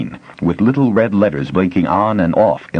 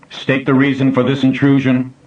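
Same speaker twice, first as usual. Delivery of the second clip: flat machine voice, higher, no inflection; computer voice; 7 semitones higher than usual. A narrator's reading. Facility computer addressing the intruders, mechanical. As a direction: speak like an old computer.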